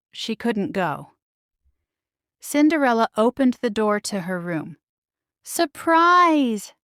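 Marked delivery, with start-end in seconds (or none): 5.4-6.7 high, bright happy shout; spring the surprise on her; joyful shout. A narrator's reading. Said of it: "shouted the mice and birds".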